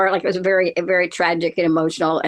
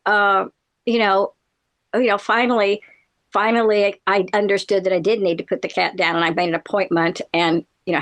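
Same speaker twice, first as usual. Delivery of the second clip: ordinary talk, nothing marked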